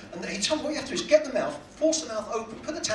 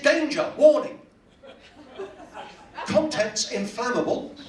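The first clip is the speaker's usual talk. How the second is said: alarmed warning readout; 6 semitones higher, slower than usual. Acted. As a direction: sound the alarm, stretching the last words. Acts out warning on spray can.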